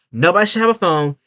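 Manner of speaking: lightly voiced stern lecturer; a hint of scolding a student; strict quote. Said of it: "she said".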